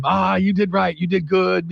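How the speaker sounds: mimicked delighted approval; big-smile approval. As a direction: praise through a big smile. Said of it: "You know, big smiles".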